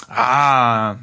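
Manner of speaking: slow, hushed fake "delicious"; mock relish after a pretend drink; fake satisfaction. A narrator's reading. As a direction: lie that it tasted great, drawn out. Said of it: "log er dem etwas enttäuschten Kaufmann".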